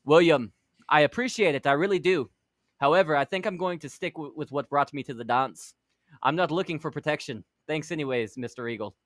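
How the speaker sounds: put-on a slipping accent that drifts Scottish. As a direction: decline politely with a light Scottish accent. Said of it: "I went to Scottish".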